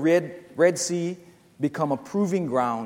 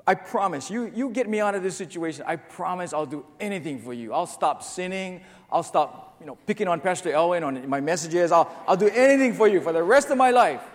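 desperate bargaining; 2 semitones higher, 5 dB louder than usual. Acted. Desperate man bargains with God.

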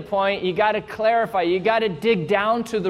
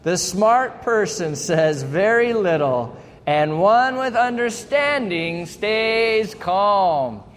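slow, louder unison reading; full voice; 3 semitones higher, 3 dB louder, slower than usual. Shown as a demonstration. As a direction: read it out strong and slow. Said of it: "out loud with full voice".

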